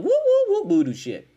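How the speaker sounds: high, slow, spooky woo-woo voice; mock spooky. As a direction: ham up a ghostly voodoo chant. Joking about Wade's voodoo magic.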